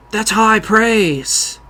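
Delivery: slow, hushed, intense mock Cage; whisper-menace it like an SNL Cage; Andy Samberg as Nick Cage. Host shows off his Samberg-as-Cage, slow and hushed. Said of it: "Andy Samberg impersonating Nick Cage".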